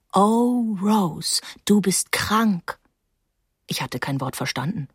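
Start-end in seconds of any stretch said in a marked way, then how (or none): 0.1-2.8 recited from memory. A narrator's reading. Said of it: "Paula hatte es mir vor Jahren vorgelesen".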